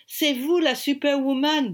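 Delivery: put-on high, loud British-accented French; British accent, lifted and enthusiastic. A narrator's reading. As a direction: play an Englishman congratulating her in French. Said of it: "avec son accent british".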